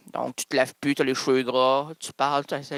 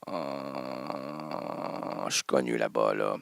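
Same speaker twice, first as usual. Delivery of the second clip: deep boasting voice; 8 dB quieter, much slower than usual. Acted. Boasting about Pigalle fame.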